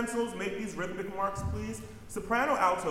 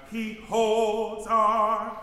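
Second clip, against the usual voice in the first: run together; 6 semitones higher, 7 dB louder, much slower than usual. Shown as a demonstration. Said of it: "Can you put a little separation between he and holds?".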